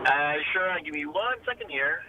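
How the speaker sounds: shortwave radio sound; distant tinny phone line; on speakerphone. Real, not acted. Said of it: "sounds almost like shortwave radio".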